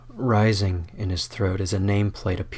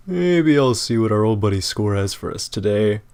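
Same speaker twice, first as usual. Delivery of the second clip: tempted; 3 dB louder than usual. Acted. Squid's voice, tempted.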